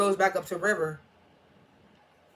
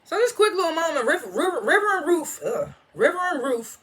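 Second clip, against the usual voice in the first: laughing, tripping over the names; bursting to tell it, giggling; excited; 9 semitones higher than usual. Real, not acted. Recapping the show to viewers, giggly and excited.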